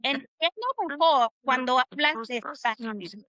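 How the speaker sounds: "Entiendo mejor cuando hablas despacio" measured, with a gap after "Entiendo"; careful Spanish demonstration of "Entiendo mejor cuando hablas despacio"; pronunciation model. Shown as a demonstration. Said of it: "so it sounds like this".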